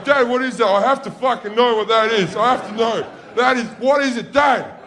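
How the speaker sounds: put-on high, loud, insistent child; desperate pestering kid. Two sons demanding Dad explain the object, urgent pestering.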